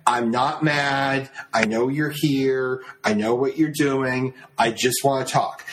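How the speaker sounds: slow, deliberately calm reassurance; forced calm. Retold or imitated. Steve to his girlfriend, slow and calm. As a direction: take a breath and talk him down slowly. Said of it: "you take a breath".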